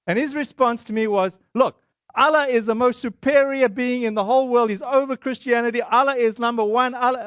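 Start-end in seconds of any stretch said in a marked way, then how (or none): 1.5-7.2 mildly insistent, pitch lifted a little; defensive. Retold or imitated. Shop owner defending his faith to a visitor, defensive. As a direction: argue back, insisting on your point. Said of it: "getting defensive".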